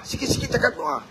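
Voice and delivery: "sikit-sikit cakap doa" whispered, unvoiced and soft; breathy whispered echo of "sikit-sikit cakap doa". Shown as a demonstration. Repeated as a whisper.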